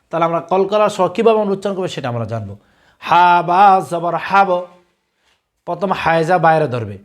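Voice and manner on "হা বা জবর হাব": slow spelling chant, with a bounced final ব in হাব; teacher's drawn-out recitation, ending in a bouncing ব on হাব; qalqalah drill. Shown as a demonstration. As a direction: spell it out slowly, then push an echoing ব at the end of হাব. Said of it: "কলকলা অর্থ হচ্ছে ধাক্কা দিয়ে পড়া".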